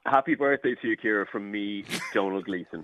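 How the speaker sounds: lightly put-on Dublin accent. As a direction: pose as Donald Gleeson, Dublin-style. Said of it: "this individual has a Dublin accent".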